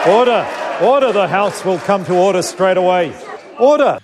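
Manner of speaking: firm parliamentary call to order. Real, not acted. Speaker calls House to order.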